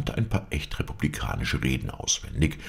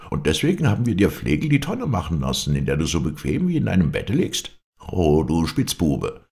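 a touch of raised, scolding indignation; indignant scolding; 3 semitones higher, 4 dB louder than usual. Acted. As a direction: scold a rascal who broke the deal. Townsmen scold their paid philosopher.

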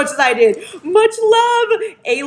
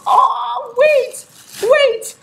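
surprised; 14 semitones higher, 3 dB louder, much slower than usual. Real, not acted. Spotting a surprise in package.

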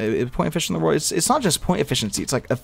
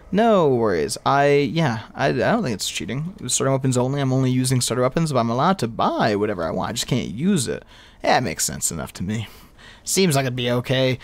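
ordinary delivery

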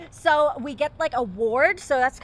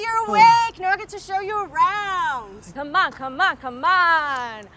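excited welcome; 3 semitones higher, slower than usual. Acted. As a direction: gush over a newcomer. Excited fairy greets waking newcomer.

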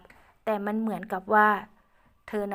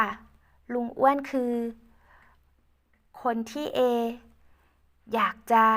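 put-on higher, louder sweet girl voice; loving young woman; 4 semitones higher, 3 dB louder than usual. Ae thanking Uncle Uan with love, high sweet voice.

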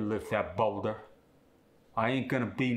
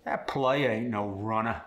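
player and runner end in UH with a downward lilt; Cockney, drop the R to UH; Cockney accent. Shown as a demonstration. Student demos the Cockney R on player and runner. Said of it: "replaced with the uh sound".

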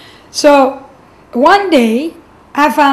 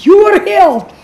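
voice from far away; 7 semitones higher, 4 dB louder than usual. Retold or imitated. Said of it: "speaking like this".

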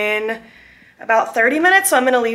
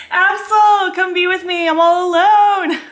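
high, pleading sing-out to a pet; high-pitched pet call; 7 semitones higher, 3 dB louder than usual. Real, not acted. Alone and calling a cat for company, high pleading call.

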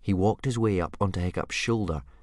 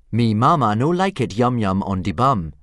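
loud Dragonese phrasebook example; 3 semitones higher, 8 dB louder than usual. A narrator's reading. Reader gives a common dragon phrase, in loud Dragonese. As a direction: call out the dragon phrase with relish.

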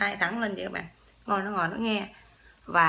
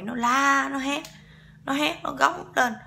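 mildly raised retelling; 4 semitones higher, 4 dB louder, slower than usual. Retold or imitated. Retells the pig screaming at burial.

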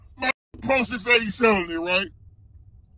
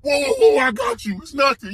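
mock scammer reassurance. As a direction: ham up the seller's fake eagerness. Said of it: "He like".

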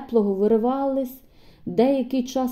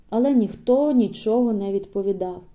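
usual speaking voice

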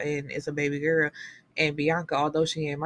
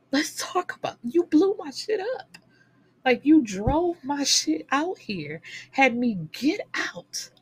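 mock outrage; 8 semitones higher than usual. Ranting at the character.

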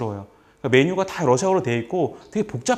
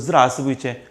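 mouth wide open; 3 dB louder, much slower than usual. Shown as a demonstration. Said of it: "입을 크게 여시고요".

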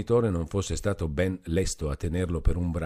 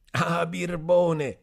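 put-on much higher, slow, drunk Renzo crying out; drunken exclamation; 10 semitones higher, 4 dB louder, much slower than usual. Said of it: "esclamò Renzo".

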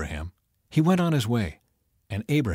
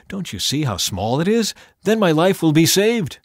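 loud, high pleading; earnest begging; 6 semitones higher, 4 dB louder than usual. A narrator's reading. Lot begging the angel to let him go to the village, earnest pleading. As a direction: plead hard for another way. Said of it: "Lot begged".

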